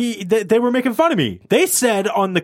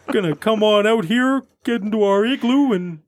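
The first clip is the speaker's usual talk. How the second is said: higher, hammed-up Canadian caricature; 5 semitones higher than usual. Host joking about his old accent, exaggerated Canadian. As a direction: keep the Canadian parody rolling. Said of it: "used to say it very Canadian".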